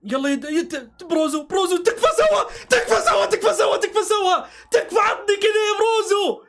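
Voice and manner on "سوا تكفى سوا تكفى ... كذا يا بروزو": high shouted pleading; real urgent plea to the player; urgent shouting. Real, not acted. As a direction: urge him on at the top of your voice. Urging the player on.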